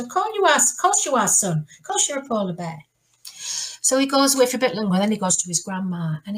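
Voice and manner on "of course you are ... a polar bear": reassuring dad. Acted. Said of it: "his dad says exactly the same answer".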